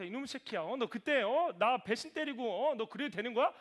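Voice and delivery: 화내며 따지기. Acted. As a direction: act out an indignant confrontation with a traitor. Imagines Jesus angrily confronting Peter. (배신당한 듯 따지는 말투)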